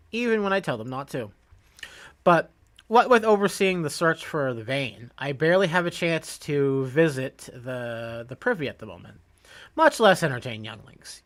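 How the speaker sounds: lightly acted game dialogue, lively at the start; a hint of a harried quest giver; lightly voiced quest giver. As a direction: read the quest giver's request in character. Reads quest giver's dialogue aloud.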